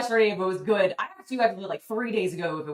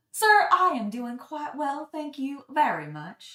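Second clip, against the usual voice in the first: put-on Southern American accent, voice raised higher; 6 semitones higher than usual. Performing a short skit after telling listeners to prepare their ears: put-on southern accent. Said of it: "my southern accent that you're about to hear".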